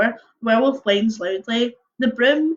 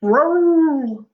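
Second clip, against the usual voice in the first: high, louder rolling growl word; werewolf growl; 5 semitones higher, 4 dB louder than usual. Shown as a demonstration. Reading the werewolf's growl, a rolling beastly growl. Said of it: "This is quite a hard phonetic one".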